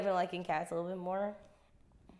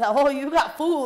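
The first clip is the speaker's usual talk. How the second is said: cat voice; 4 semitones higher, 9 dB louder than usual. Pretend. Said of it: "A cat's loyal because".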